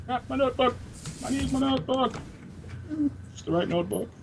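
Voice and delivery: high, frantic fussing over a notebook; flustered prisoner. Acted. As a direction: panicky little scholar voice.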